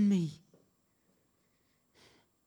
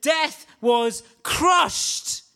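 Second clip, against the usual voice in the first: shout; 5 semitones higher, 4 dB louder, much slower than usual. Real, not acted. Repeated exclamation, shouted.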